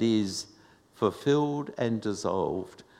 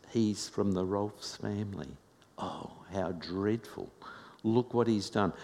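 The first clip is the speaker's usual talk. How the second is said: hushed, scandalised whisper of a neighbour; shocked gossiping neighbour; 5 dB quieter than usual. Retold or imitated. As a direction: gasp it like a shocked onlooker tutting. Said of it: "all of the Rolfs would be disgraced".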